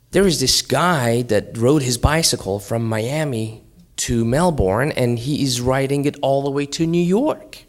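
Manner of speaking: put-on excited kid telling dad; excited daughter. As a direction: report amazing news, pitch climbing at the end.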